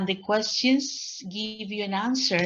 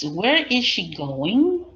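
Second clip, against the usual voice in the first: slow and louder; slow model question; 3 semitones higher, 8 dB louder, much slower than usual. Shown as a demonstration. Teacher repeating a student's answer, slow.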